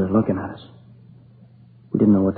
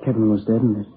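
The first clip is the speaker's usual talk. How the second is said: tearful. Real, not acted. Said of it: "Crying like a kid".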